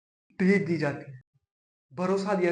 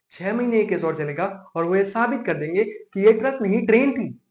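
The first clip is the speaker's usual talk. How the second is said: loud, mounting courtroom sarcasm; indignant sarcasm; 6 dB louder than usual. Acted. Lawyer mocking opposing counsel to the judge, indignant sarcasm. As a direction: ridicule the claim, building louder to the last word.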